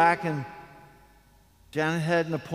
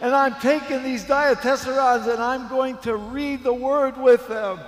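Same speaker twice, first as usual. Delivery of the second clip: high, overwhelmed voice of a weeping woman; imitated crying; 6 semitones higher, 3 dB louder than usual. Preacher quoting the stranger given books for her friends, imitated tearful fervour. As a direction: retell her tearful outburst, pitched well up. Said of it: "she starts crying. I mean crying".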